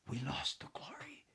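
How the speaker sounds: put-on grave hushed boy's line; utmost gravity. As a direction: intone it solemnly, hushed at the end. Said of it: "David intoned with the utmost gravity".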